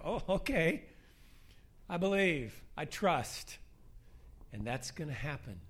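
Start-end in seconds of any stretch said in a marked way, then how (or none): 0.0-3.6 loud, higher burst of conviction; emphatic acted belief. Preacher acting out how he'd react to a healing, loud exclamation. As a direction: exclaim it as if suddenly won over. Eager reaction to witnessed miracle.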